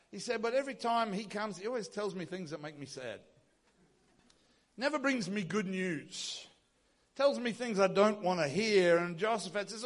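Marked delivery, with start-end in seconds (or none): 0.4-9.0 softly grumbled complaint of a pouting king; mock sulking. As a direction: mildly act out a long-faced moan. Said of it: "Ahab's lip sticks out and his face gets long".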